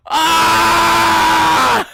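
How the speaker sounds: long scream breaking into high laughs; scream, then crack up; joyful scream into laughter. Real, not acted. Fan overcome by the clinch, scream turning to laughter.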